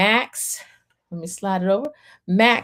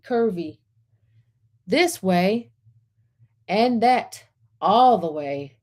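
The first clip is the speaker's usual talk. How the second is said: storybook narration; 2 semitones higher than usual. A narrator's reading. Reading picture book aloud.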